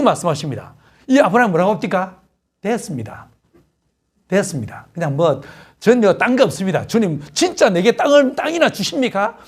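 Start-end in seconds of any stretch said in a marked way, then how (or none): 2.6-9.4 a sulky, grumbling Abraham, lightly voiced; a hint of curt complaint to God; blunt and curt. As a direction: mutter it like a fed-up old man, half-hearted. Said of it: "퉁명스럽게 막 이야기하고".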